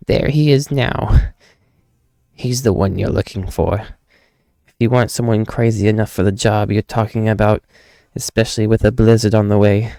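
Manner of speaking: lightly voiced townsperson pointing someone out; barkeep-like character. Townsperson recommending a man crazy enough for the job, lightly voiced character.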